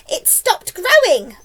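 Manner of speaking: high, loud, drawn-out exclamation; crying out. A narrator's reading. Aunt announces growing has stopped, loud cry. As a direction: cry it out, stretching the words. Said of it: "Aunt Spiker cried".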